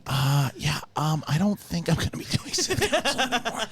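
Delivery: high, laughing, mock-awkward backing out; awkward laughing excuse. Pretend colleague, embarrassed, backing out while laughing. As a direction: laugh through a flustered excuse. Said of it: "Steph's going".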